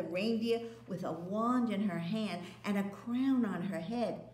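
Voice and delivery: put-on a child telling a scary tale; Lucy warning about the witch. Lucy voiced.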